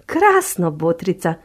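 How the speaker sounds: delighted bear. Acted.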